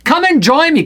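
high-pitched, eager beckoning; Jesus. Acted. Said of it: "Jesus said".

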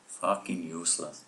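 half-hearted American cowboy accent, a bit soft; American accent slipping towards Irish; John Wayne. Shown as a demonstration. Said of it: "Do, like, a John Wayne accent".

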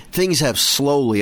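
slowly drawn out and emphasized; stress on slowly. Shown as a demonstration. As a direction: lean on the word slowly. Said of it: "I'm gonna emphasize that word slowly".

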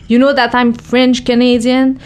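put-on slow, deliberate English with a French-Canadian accent; big French accent. Boxer retelling her interview opener, big French-Canadian accent in English. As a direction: spell it out slowly in heavy French-accented English. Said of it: "I have a big French accent".

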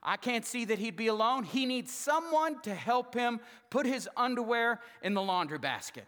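voice of God. Acted. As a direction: play God as a joking father. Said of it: "And God had pity on him and said".

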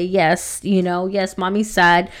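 soft, hushed mother admitting sadness; gentle admission. Retold or imitated. Mother softly tells her daughter she is sad, hushed. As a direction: say it softly to your little girl.

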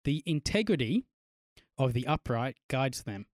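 slow, measured Bible reading; scripture reading. Acted. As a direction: read it slowly and solemnly. Reads Bible passage.

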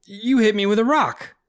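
high, indignant accusation; outraged at the rock; accusing. Acted. Joe accusing Will of throwing the rock.

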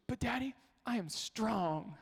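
put-on little girl voice. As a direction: insist like a determined toddler. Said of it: "she goes".

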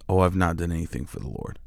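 quiet, quick, humble disclaimer; dead serious. Retold or imitated. Evangelist humbly answering the wife's thanks, dead serious. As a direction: imitate an earnest man softly brushing off praise. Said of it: "dead up, I mean, not even, like, playing".

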